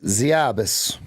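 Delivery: Russian word in an Alaskan accent; Alaskan-accented Russian cuss word. Shown as a demonstration. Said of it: "That's the Alaskan accent".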